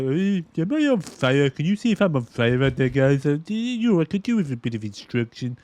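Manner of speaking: lightly voiced mumbling action hero; a loose, half-hearted take on Stallone; Stallone impression. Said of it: "And his Stallone impression isn't the best"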